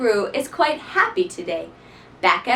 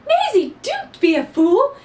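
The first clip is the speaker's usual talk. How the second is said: high, louder mother's plea; pleading mother; 10 semitones higher, 4 dB louder than usual. Acted. Maisie's mother pleads with her, high and louder. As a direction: beg her to stay. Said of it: "Her mother said".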